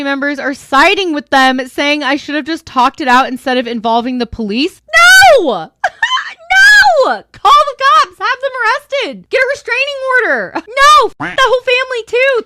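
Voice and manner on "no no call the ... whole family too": shouting, much higher and louder; outraged shouting. Acted. Reacting to the relatives, shouting in exaggerated outrage. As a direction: yell it as if furious at the family's advice. Mock outrage at family's advice.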